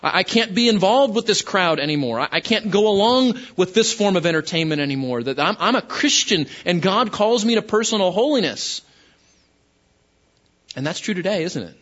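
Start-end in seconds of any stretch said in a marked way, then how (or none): 0.0-8.8 higher, emphatic voicing of converts; acted refusal. New Christians refusing pagan culture, emphatic. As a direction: lightly act out a firm refusal. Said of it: "They're saying".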